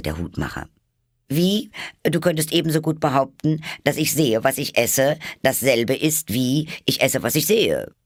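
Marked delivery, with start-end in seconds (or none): 1.3-7.9 high, loud, lively character voice; indignant Hatter. A narrator's reading. Hatter refutes Alice's logic, indignant. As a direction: pounce on the faulty logic, pitched high.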